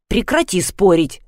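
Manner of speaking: ordinary delivery, nothing marked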